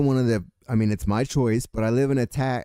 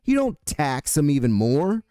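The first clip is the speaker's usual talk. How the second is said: fast, higher angry jab at a politician; angry outburst; 5 semitones higher than usual. Real, not acted. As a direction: spit it out, exasperated and quick. Ranting at politician over taxes.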